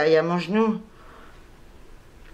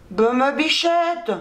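slow, higher cooing to the cat; pet talk; 5 semitones higher, slower than usual. Real, not acted. Parle tendrement à la chatte. (voix câline et lente pour la chatte)

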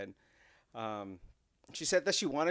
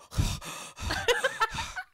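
imitated heavy breathing. Dad mimics his breathing on the podcast, heavy panting. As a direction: breathe heavily, sending yourself up. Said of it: "you can hear me go".

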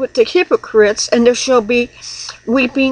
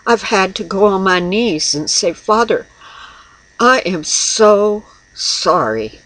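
contrite prayer; 4 semitones lower than usual. Retold or imitated. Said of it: "back away and go".

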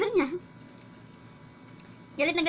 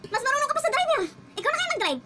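retold sassy retort; 8 semitones higher than usual. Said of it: "Sabi, sabi ko sa kanya".

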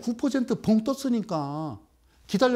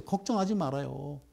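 softer, low reassurance: 걱정하지 말아요; reassuring; 6 semitones lower, 6 dB quieter than usual. Acted. 불안한 투자자들을 달래는 부드러운 목소리. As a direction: soothe them gently.

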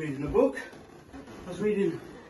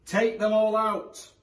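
put-on wise old sage; 9 semitones higher, 7 dB louder, slower than usual. A narrator's reading. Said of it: "said the wise old man".

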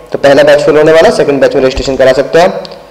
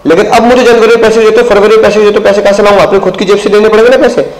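complaining on call; 5 semitones higher than usual. Retold or imitated. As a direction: press the student, raised and insistent. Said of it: "तुम्हें call करूंगा". (फ़ोन पर छात्र से ऊँची आवाज़ में शिकायत)

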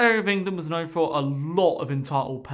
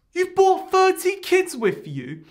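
shocked; 11 semitones higher, 4 dB louder, slower than usual. Retold or imitated. Narrator's shocked question.

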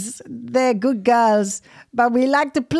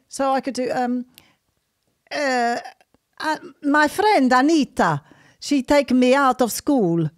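put-on Italian accent. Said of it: "I still sound Italian".

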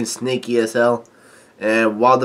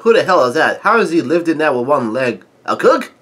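mildly acted astonishment, rising at the end; half-voiced incredulous outburst; surprised retold yell; 2 semitones higher than usual. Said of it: "Lord Oven is surprised ... he yells out".

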